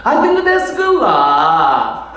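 squeaky put-on Chinese English; 중국식 영어 흉내; Chinese-accented English. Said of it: "중국입니다".

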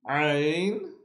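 each Arabic letter said clearly with a pause; name each letter crisply, one at a time; letters in a row. Shown as a demonstration. Teacher runs through the letters together. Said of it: "let's try them together".

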